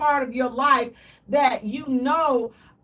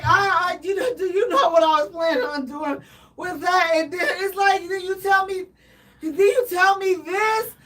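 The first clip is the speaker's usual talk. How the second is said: higher, louder, hammed-up tearful whine; mock crying; 4 semitones higher, 3 dB louder than usual. To the partner, a hammed-up tearful complaint. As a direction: whine it through fake tears. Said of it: "I would cry like a baby".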